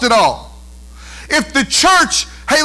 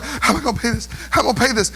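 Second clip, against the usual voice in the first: softer, lightly imitated fretting; mock money worry; 6 dB quieter, much faster than usual. Preacher imitating listeners fretting over bills, mock worry. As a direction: repeat it like a muttered worry. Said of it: "your bills are like".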